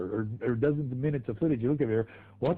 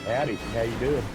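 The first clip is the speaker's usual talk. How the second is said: put-on a light Southern hick accent, lower; 4 semitones lower than usual. Greeting a suit in the elevator in a light hick accent. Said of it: "in the hick accent".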